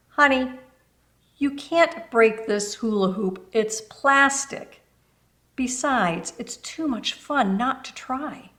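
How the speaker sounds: lightly voiced, cheerful coaxing; encouraging older neighbour. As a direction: reassure and tempt her to try. Encouraging Peggy.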